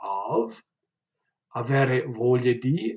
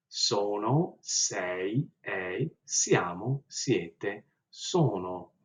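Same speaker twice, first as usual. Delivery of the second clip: conjugation drill; 2 semitones lower, much slower than usual. Shown as a demonstration. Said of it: "as I go through the conjugations".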